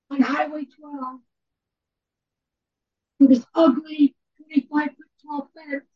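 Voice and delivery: strained, hoarse, fading lost voice. Real, not acted. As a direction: push words out through a lost voice. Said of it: "You keep cutting out".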